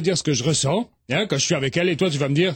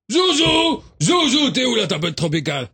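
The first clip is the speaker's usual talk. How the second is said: appel crié; 5 semitones higher, 3 dB louder than usual. Acted. Helmut appelle son ami.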